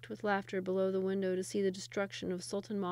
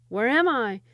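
dazed Sultan; 3 semitones higher, 10 dB louder than usual. Acted. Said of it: "asked Sultan Mahmud".

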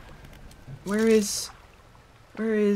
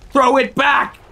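hermit's plea; 7 semitones higher, 6 dB louder, slower than usual. Acted.

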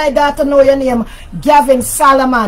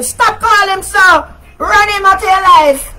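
scolding; 7 semitones higher, 3 dB louder than usual. Real, not acted. Scolding listener in live chat.

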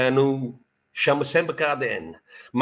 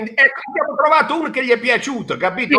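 excited teasing; 10 semitones higher, 5 dB louder, much faster than usual. Real, not acted.

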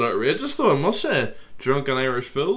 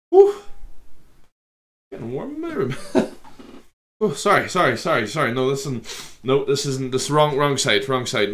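flustered giggling; 5 semitones higher, 4 dB louder than usual. Real, not acted. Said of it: "get myself under control".

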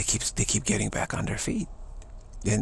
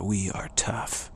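real confidence; 3 semitones lower, 3 dB quieter than usual. Acted. Texan declaring toughness, quietly confident. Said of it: "real confidence".

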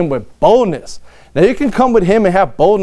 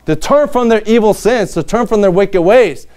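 commanding king; 3 semitones higher than usual. Pretend. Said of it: "Imagine having to say".

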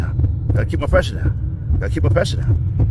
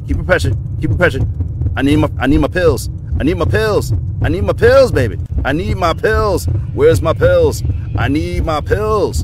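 loud frantic pleading; raging gamer; 3 semitones higher, 4 dB louder than usual. Real, not acted. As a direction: yell that you need your pills. Raging at game, demanding pills.

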